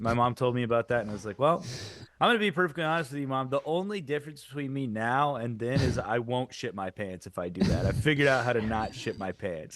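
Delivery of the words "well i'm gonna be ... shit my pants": impression voice. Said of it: "You're doing an impression".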